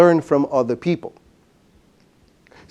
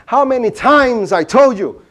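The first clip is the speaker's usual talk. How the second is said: mock scolding, higher and louder; a wife nagging about the bed, lightly acted; wife scolding her husband over the unmade bed; 5 semitones higher, 4 dB louder than usual. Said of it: "his wife says to him".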